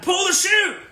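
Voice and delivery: high urgent yell; yelling at the screen. Retold or imitated. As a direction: shout at the skydiver on screen. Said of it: "I'm like".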